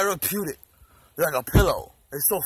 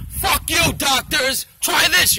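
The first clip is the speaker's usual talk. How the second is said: loud, high mock fury; aggravated outburst; 6 semitones higher, 4 dB louder, slower than usual. Raging back at the doctors, loud mock fury. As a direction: explode at the doctors. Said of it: "I get a little aggravated".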